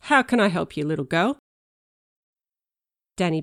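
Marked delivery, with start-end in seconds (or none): 0.0-1.4 tough cop voice. Pretend. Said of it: "in my big tough cop voice".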